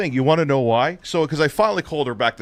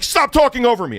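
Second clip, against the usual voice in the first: mock yell; 9 semitones higher, 4 dB louder than usual. Quoting ex yelling at him.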